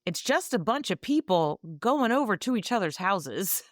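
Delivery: reading the review line out, breaking into a laugh; laughing quote. Retold or imitated. Quoting a funny book review.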